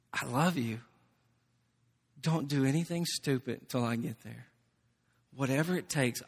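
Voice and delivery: gentle reassurance. Retold or imitated. Pastor on the phone to a struggling friend, soft and reassuring. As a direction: speak softly as if to someone hurting.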